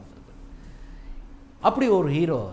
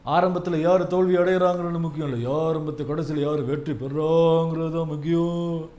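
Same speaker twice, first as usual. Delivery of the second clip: movie hero punch line; 3 semitones lower than usual. Retold or imitated. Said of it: "விஜய்க்கே ஏராளமான punch டயலாக்குகள் இருக்கு".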